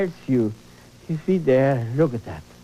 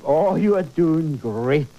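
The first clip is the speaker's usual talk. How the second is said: encouraging self-talk; 3 semitones lower, slower than usual. Pretend. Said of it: "you tell yourself".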